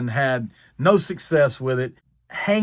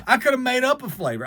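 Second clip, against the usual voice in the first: normal talking voice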